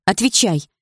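insistent, indignant order. A narrator's reading. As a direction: demand an answer, affronted. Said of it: "возмутилась я".

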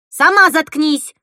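loud, slow retort; angry retort. A narrator's reading. Girl answering cousin, angry retort. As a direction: throw it back hard.

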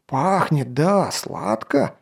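slow savouring guard; delighted. Acted. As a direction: savour the sweet smell. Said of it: "обрадованно воскликнул".

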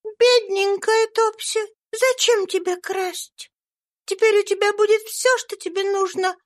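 put-on a little girl speaking gently to the frightened Topsy; tender. A narrator's reading. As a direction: kindly comfort the poor girl. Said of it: "ласково сказала".

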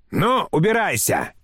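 high, mildly shouted dismissal; crying out. A narrator's reading. Grandmother dismissing the smiling clerk, crying out high. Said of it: "крикнула бабушка".

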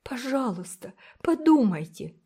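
put-on begging girl. A narrator's reading. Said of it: "умоляла Уна". (высокая детская мольба)

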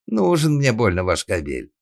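scornful maid's retort; contemptuous. A narrator's reading. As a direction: dismiss him with disdain. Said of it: "презрительно скривилась служанка".

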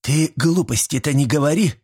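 strict grandmotherly telling-off; stern. A narrator's reading. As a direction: scold him for talking nonsense. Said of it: "строго глянула на меня баба Стеша".

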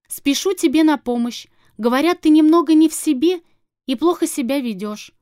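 hammed-up baby talk to a dog; mocking sugary voice. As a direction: coo at him like a silly pet owner. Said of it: "Так, что ли?".

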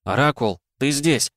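glad, rising cry of relief; overjoyed. Acted. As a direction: greet her with sudden joy. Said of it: "обрадовался". (радостно, с облегчением)

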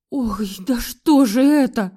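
slow theatrical groan; fake moan. A narrator's reading. Mother-in-law fakes another attack, theatrical groan. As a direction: overplay the pain. Снова схватилась за сердце.

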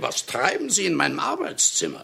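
who the devil are you, burst out; startled outburst. Acted. Writer startled by stranger in his study, indignant shout.

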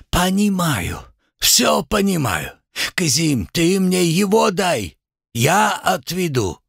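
a kindly worker taking charge; Uzbek Nariman. Acted. Nariman agrees to help.

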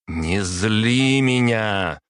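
выше, громче и медленно; пригрозить в ярости; гневная угроза. A narrator's reading. Угроза в гневе. (дочь угрожает отцу, громко и медленно)

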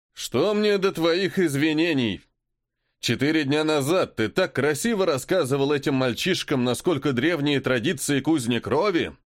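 angry lord. Acted. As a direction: dress him down. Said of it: "всё громче говорящего Суава".

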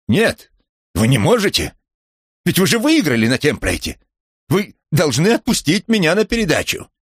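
high, loud frantic pleading; desperate shout. Acted. Presenter begging to be released for the show, high loud frantic shout. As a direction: beg with rising panic.

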